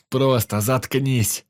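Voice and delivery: silencing the apologising friend, angry; cold angry order. Acted. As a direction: spit each word out slowly. Hero cuts off apology.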